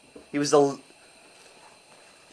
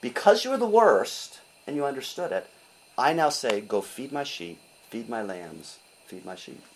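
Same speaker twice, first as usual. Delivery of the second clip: tender Jesus; 5 semitones lower, 4 dB quieter than usual. Acted. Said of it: "He says".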